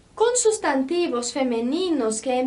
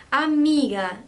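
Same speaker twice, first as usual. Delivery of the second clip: Amiga with the weight on the middle syllable mi; teacher demo of the stressed mi in Amiga; 3 dB louder than usual. Shown as a demonstration. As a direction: lean on mi in Amiga. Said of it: "O som mais forte aqui é o mi".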